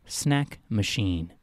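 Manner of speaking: measured, slow storytelling read; story narration. A narrator's reading. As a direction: narrate it slowly, phrase by phrase. Reads his own story aloud.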